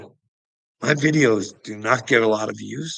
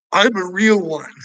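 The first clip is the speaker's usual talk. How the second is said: mock boast; 8 semitones higher, 9 dB louder than usual. Mocking Dex's boast.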